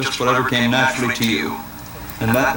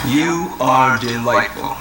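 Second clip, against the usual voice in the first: slow, tender romantic delivery; much slower than usual. Pretend. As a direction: croon it slowly to her. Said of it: "in the most romantic voice you have".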